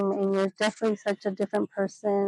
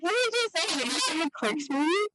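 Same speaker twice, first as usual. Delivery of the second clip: much higher, incredulous retold question; mock incredulous; 7 semitones higher, 3 dB quieter than usual. Reacting to someone crying over a movie, mock incredulous. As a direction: squeak out a disbelieving question. Acts out startled reply about crying.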